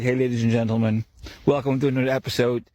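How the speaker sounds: breezy, upbeat show-opener greeting; mock radio host. Mocking how a radio host would open the episode, breezy and upbeat. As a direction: parody a cheery host starting the show. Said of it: "like a radio host".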